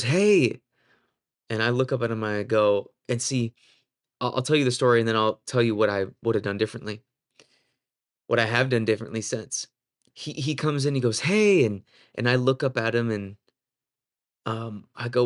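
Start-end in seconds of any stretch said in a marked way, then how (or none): 0.0-0.6 imitated butting-in call, pitched up; higher, intrusive hail; rude interjection. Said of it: "he interjects, like, super rude". 11.2-11.6 imitated butting-in call, high-pitched and louder; high, loud intrusive hail; rude interjection. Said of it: "he interjects, like, super rude".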